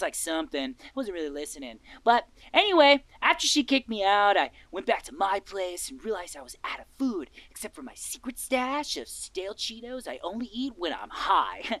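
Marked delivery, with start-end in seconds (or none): 4.4-10.1 whispering. Acted. Unvoiced aside.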